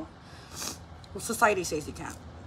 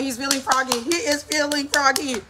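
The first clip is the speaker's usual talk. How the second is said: raised, louder, slowing on the repeat; mock provoked disbelief; 4 semitones higher, 6 dB louder than usual. Mom remarking on her defiant toddler, mock provoked.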